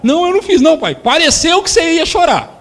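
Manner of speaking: mock pleading child; protesting child. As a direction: deny it like a scared kid. Child denying to father.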